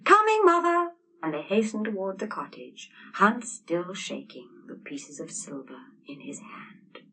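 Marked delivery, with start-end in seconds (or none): 0.0-0.9 loud, high call back. Acted. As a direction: shout back across the yard. Answering a call from afar.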